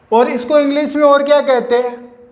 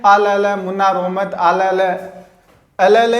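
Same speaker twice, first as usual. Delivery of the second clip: put-on lower, gentle baby talk; hushing a baby; 4 semitones lower than usual. Parent calming a crying baby, lightly voiced. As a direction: coo at a crying infant. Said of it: "उसको अपने कहते हैं ना".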